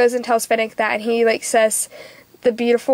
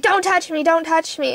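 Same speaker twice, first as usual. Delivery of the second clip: higher-pitched mock panic; retold panicked protest; 5 semitones higher than usual. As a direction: act out her protest, pitched up. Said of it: "they come and grab her".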